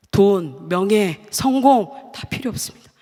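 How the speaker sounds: a retold prayer, crying out for God alone; fervent cry. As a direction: hurl each word away from you. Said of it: "그 절규 같은".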